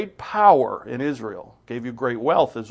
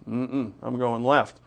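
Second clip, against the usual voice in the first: stubborn refusal; 3 dB quieter than usual. Retold or imitated. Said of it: "stubborn ox refusal".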